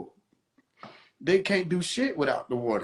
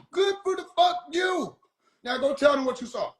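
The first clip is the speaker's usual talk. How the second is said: sarcastic God; 8 semitones higher than usual. Pretend. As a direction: brush them off, hammed-up. God mocking, high pitch.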